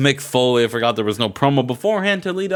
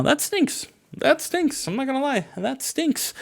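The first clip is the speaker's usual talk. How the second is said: mock disgust; 13 semitones higher, 5 dB quieter than usual. Disgust at match rating.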